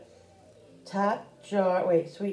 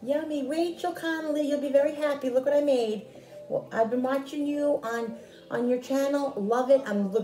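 cheerful sing-song; 6 semitones higher than usual. Real, not acted. Addresses Rachel Connolly cheerfully.

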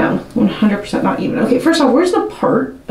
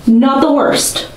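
grudging approval; 3 semitones higher, slower than usual. Real, not acted. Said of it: "judging her bangs, slowly".

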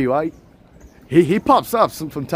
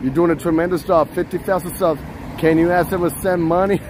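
lightly voiced presidential impression; a hint of Trump, praising the streamer; Donald Trump. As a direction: do a mild Trump voice. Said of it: "Manny Trump".

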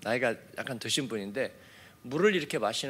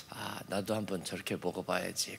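inner thought; 8 semitones lower, 9 dB quieter than usual. Retold or imitated. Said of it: "그런 생각이 들 정도로".

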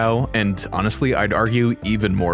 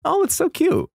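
high, adoring coo; real high-pitched delight; gushing. Real, not acted. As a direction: coo over something adorable. Gushing over cute character cards.

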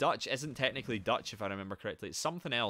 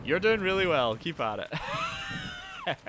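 very high put-on voice cheering himself on; mock cheerleader; 7 semitones higher, much slower than usual. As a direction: squeak out a cheesy pep talk. Cheering himself on mid-fight.

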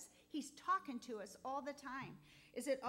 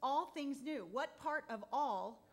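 rising fervor; 3 semitones higher, 5 dB louder than usual. Real, not acted. Testimony turns to preaching.

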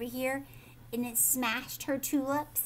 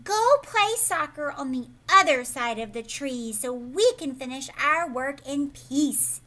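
louder, fed-up shout; shouting rabbit; 6 dB louder than usual. Acted. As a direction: yell at Ralph to go away. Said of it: "The rabbit shouted at Ralph".

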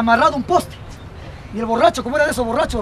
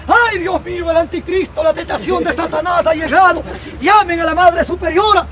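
raised, wailing cry of alarm; acted uproar; 3 semitones higher than usual. Nuns finding something fallen in the convent, clamouring. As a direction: raise a scandalized hue and cry. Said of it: "las monjas se alborotan".

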